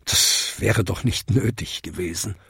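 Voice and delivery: leiser, tieferer, gerührter alter Jakob; gerührt strahlend. Acted. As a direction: bescheiden und gerührt abwinken. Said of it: "gab Jakob strahlend zurück". (Jakob wehrt gerührt ab, leise und bescheiden)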